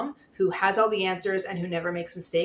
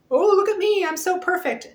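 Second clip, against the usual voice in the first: mock smug boast; 10 semitones higher, 4 dB louder than usual. Mocking a smug perfect mom.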